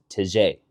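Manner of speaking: tege, French way; French-style tege. Shown as a demonstration. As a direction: say tege like in protege. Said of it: "where T E G E is".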